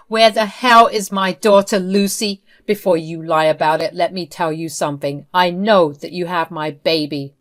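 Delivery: loud, furious demand at Lucy; angry shout. Acted. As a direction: yell at her to give the baby back. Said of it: "I almost shouted at her".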